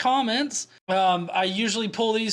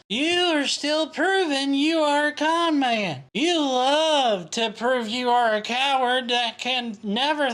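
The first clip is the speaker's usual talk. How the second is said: slow, drawn-out put-on accusation; mock-earnest denouncing, stretched words; preachy mock commenter; 5 semitones higher than usual. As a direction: read it as a hammed-up indignant accuser.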